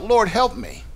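high-pitched acted plea; crying out. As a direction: cry out for help, voice lifted high. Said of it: "The woman cries out".

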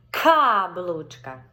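повільно, з наголосом на К; slow, stressed first syllable. Shown as a demonstration. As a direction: stretch Картина slowly for the child. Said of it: "Акцентуємо увагу тільки на перший склад".

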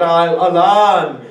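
mournful Arabic wail; anguished cry. Acted. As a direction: cry it out as a grieving brother. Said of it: "grabs his back and cries out".

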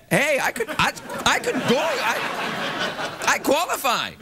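high, stammering eagerness; mock eager outburst. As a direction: blurt it like an overkeen contestant. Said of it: "I was like".

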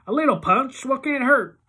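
high, loud nervous coaxing; downplay it nervously; Iggy nervously excusing the drinking. A narrator's reading. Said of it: "he sounds real nervous".

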